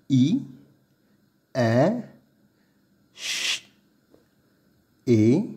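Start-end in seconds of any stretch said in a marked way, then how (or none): 3.1-3.7 "ch" 를 목소리 없이 쉬익 하고; ch sound alone. Shown as a demonstration. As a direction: hiss "ch" unvoiced like shh. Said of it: "c avec un h, ceci nous donne ch".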